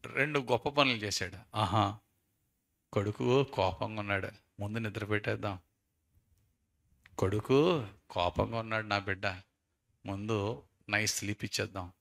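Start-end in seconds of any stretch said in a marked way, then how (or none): 1.6-11.9 tender father. Acted.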